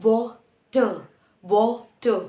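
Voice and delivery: water ending in an open vowel, no R; British-style "water", R left silent. Shown as a demonstration. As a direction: drop the final R of "water". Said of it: "British कैसे pronounce करेंगे?".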